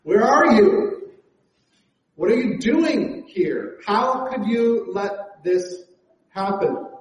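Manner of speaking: pleading cry flung upward; mock yell at God. A person in crisis demanding answers from God, mock yell. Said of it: "we yell at God".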